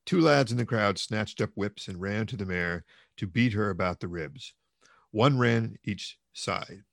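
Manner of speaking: measured, dramatic novel reading; audiobook-style storytelling; story narration. A narrator's reading. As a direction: read the tale aloud with deliberate phrasing. Reads novel aloud.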